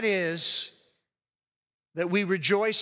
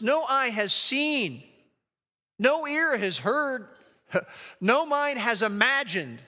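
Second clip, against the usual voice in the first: awed scripture quote; 5 semitones higher, slower than usual. Acted. Pastor relishing Paul's promise, slow and awed. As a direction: marvel at every phrase.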